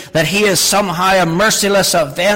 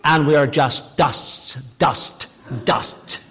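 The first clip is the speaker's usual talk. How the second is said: slow, emphatic repetition; slower than usual. Retold or imitated. Praying man expanding his point, slow and fading. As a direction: drag out each dust, fading to a breath. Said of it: "to emphasize the point".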